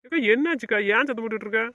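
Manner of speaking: high, loud questioning; startled calling back. Acted. Woken brother answering shouting sister, loud startled call. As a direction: call back loudly, wanting to know what happened.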